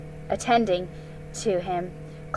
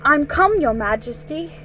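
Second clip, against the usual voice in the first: put-on high, eager boyish voice; a boy rushing forward to please; 6 semitones higher, 5 dB louder than usual. Edmund greets the queen.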